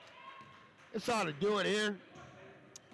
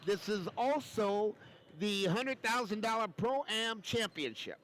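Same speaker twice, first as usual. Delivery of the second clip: announcer sign-off; 2 semitones higher than usual. Real, not acted.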